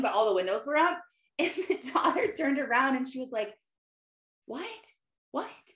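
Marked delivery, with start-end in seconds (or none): 4.5-5.6 small, high, soft mock "what?"; not hearing. Daughter who can't hear her mom, imitated high soft what. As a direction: imitate a distant, puzzled kid. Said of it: "Like, she wasn't hearing".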